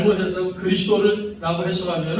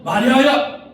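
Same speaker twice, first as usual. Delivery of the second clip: a higher, louder call rising at the end; Jesus calling Mary; 6 semitones higher, 6 dB louder, slower than usual. Acted. Jesus calls Mary, higher louder call. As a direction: call her name, lifting up. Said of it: "하고 이렇게 부르시니까는".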